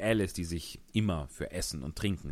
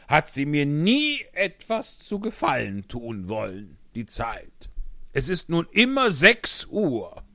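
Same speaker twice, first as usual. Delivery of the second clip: sad; 8 semitones higher, 7 dB louder than usual. Acted. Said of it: "traurig weiter".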